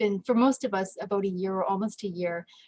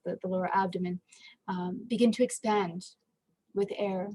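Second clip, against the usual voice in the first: measured meditation guide with long pauses; guided meditation. Acted. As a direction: gently guide listeners, pausing between phrases.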